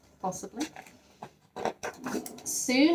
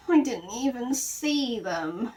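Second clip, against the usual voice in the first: sadly; 3 semitones higher, slower than usual. Acted. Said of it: "said Paddington sadly".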